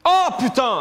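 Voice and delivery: loud exasperated yell; shout. Real, not acted. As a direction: yell it out in frustration. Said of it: "j'ai hurlé par contre".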